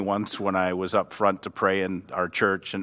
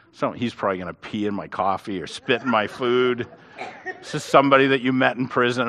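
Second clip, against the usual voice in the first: laughing aside. Retold or imitated. A worried joke, laughing.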